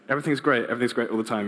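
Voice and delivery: a hint of Ned's forced cheer; cheery Ned Flanders. Pastor mimics Flanders' relentless cheer, mildly chirpy. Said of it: "who's like".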